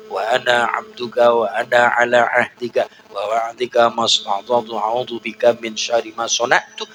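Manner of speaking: usual speaking voice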